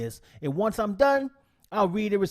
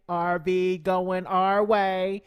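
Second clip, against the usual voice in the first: playful riff; 2 semitones higher, much slower than usual. Pretend. Playful riff on channel name.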